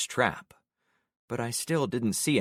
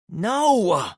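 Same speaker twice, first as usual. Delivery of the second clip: groaned; 10 semitones higher, 7 dB louder than usual. A narrator's reading. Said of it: "she groaned".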